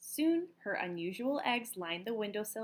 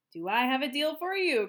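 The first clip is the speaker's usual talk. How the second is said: louder salesy excitement; louder eager pitch; eager cry; 4 semitones higher, 6 dB louder than usual. A narrator's reading. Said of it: "cried Missus Pennywort".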